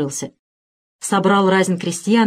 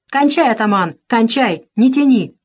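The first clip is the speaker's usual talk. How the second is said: clamoring; 3 semitones higher, 3 dB louder than usual. Acted. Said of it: "зашумели крестьяне".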